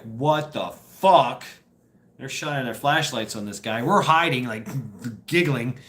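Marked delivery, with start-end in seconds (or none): 0.0-1.4 slow, drawn-out disbelief with a punch at the end; imitated bafflement. MPs finding a man taped to a tower, mock baffled. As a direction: stretch it out, baffled, landing hard. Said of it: "they're like".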